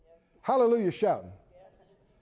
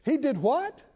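1 shocked disbelief; 5 semitones higher than usual. Acted. Preacher acting shocked disbelief.

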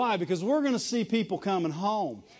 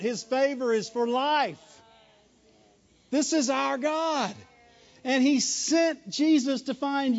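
raised-pitch sermon proclamation; impassioned preaching; 3 semitones higher than usual. Real, not acted. Preacher telling the congregation of God's kindness, impassioned proclamation. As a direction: proclaim it, stretching the key phrases.

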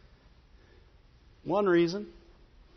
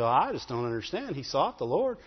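lower, softer puzzled grumble; a mild imitation of a doubting believer; complaining churchgoer; 5 semitones lower, 3 dB quieter than usual. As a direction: grumble like someone who feels God was unfair. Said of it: "People say".

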